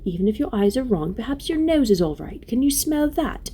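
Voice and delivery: coax, slowing on the last question; tender-hearted Lucy, coaxing. Acted.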